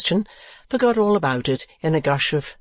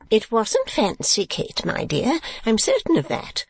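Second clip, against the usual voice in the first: lightly voiced, higher-pitched mother; insistent fussy mother; 8 semitones higher than usual. A narrator's reading. Mother contradicting her daughter, insistent.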